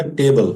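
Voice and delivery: टेबल set apart as "tebal"; second part model. Shown as a demonstration. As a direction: model टेबल as the ending on its own. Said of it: "ये हो गया टेबल". (टेबल, अलग से साफ़ उच्चारण)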